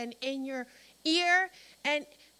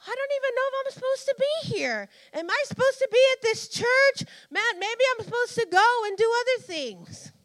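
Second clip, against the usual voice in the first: agitated, higher-pitched self-questioning; confused second-guessing; 5 semitones higher, 4 dB louder than usual. Acted. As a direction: act out doubt, louder and more insistent as it goes. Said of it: "That's confusion".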